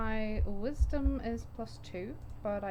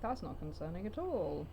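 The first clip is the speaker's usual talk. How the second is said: sarcastic. Real, not acted. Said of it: "Oh, you were sarcastic".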